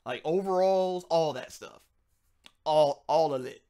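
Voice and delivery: high, slow Southern drawl on overalls; mock Southern drawl; Southern twang. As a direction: stretch out overalls like a Southern relative. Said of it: "They all sound like this".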